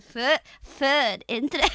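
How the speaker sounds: "Foot" and "Interest" loud in mock Scottish, cracking up. Shown as a demonstration. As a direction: bark "Foot" in silly Scottish. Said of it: "That's some of you freaks in the chat".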